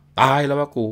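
frightened cry. Acted. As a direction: cry out as a brick hits the wall. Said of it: "ร้องบอกว่า".

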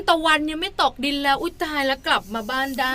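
lightly acted sarcastic surprise; mock amazement with a dig in it. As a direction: say it as a mild spousal jibe. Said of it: "ประชดจ้า".

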